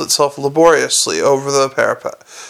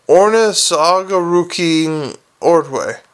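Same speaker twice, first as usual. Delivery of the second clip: gargoyle voice; slower than usual. Acted. Gargoyle says its name.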